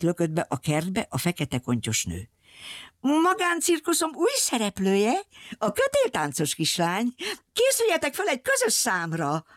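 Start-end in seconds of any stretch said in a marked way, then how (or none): 3.0-9.4 bun-haired woman announcing. Acted.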